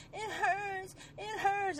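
put-on high, soft little girl's whimper; soft, high child's complaint; imitating little girl. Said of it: "She goes".

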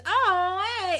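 a hint of an actress breaking character; out-of-character mock greeting. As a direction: drop the role and just say hey. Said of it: "She goes".

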